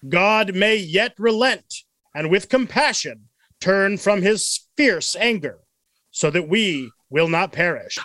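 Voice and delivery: slow, grand royal proclamation; a pompous king reading a decree. Pretend. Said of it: "best pompous king reading".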